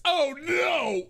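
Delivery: high mock-horrified shout; mock dismay. Streamer reacting to dollars and cents total, mock horror. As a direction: cry out in playful dismay.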